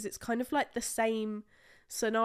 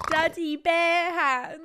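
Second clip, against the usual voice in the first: slow, higher, disbelieving repeat; incredulous; 7 semitones higher, 8 dB louder, slower than usual. Real, not acted. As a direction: echo it back in shock.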